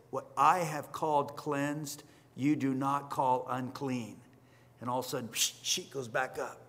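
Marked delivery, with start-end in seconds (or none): 0.1-4.2 lower, softer and slow; quiet divine correction; solemn low rebuke. Retold or imitated. God correcting Peter, low, soft and slow.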